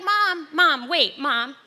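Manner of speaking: put-on high, loud childlike pleading; child's pleading. Daughter as a little kid, loudly pleading with her mom to wait. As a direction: beg like a frantic seven-year-old. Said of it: "I turn seven".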